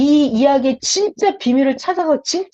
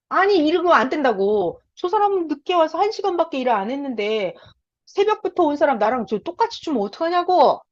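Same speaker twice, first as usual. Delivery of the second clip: mild mock protest; 4 semitones higher than usual. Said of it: "완전 화가 났고 주인한테 따졌어요".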